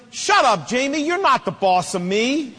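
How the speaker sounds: mock childish defiance; defiant kid. Child snapping back at his brother.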